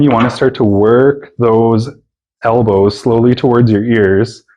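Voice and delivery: shaky voice under physical effort. Real, not acted. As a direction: voice trembling from strain. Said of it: "You can probably hear my voice shaking".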